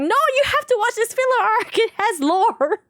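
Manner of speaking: hammed-up lore nerd; mock earnest insistence. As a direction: sell the filler arc with fake seriousness. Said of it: "and I'm like".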